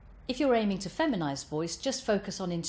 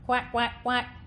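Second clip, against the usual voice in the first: higher-pitched quacks without twang; duck quack; 5 semitones higher, 4 dB louder, slower than usual. Shown as a demonstration. Voice coach quacking like a duck, no twang. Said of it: "quack like a duck".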